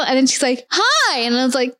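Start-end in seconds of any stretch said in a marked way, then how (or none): 0.7-1.2 high, mock-friendly sing-out; imitated insistent greeting. Girl keeps greeting me on campus, imitated high insistent greeting.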